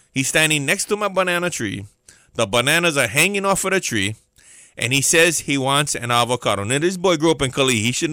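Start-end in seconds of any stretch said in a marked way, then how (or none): 0.1-6.6 deliberate, spelled-out recap; said slowly. Shown as a demonstration. Preacher recapping the banana story for listeners, deliberate. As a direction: lay each fact out one by one. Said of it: "Let me say that real slow".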